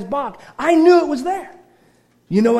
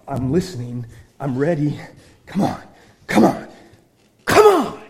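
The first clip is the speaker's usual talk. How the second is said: eager invitation; 7 semitones lower than usual. Acted. God eagerly calling, building.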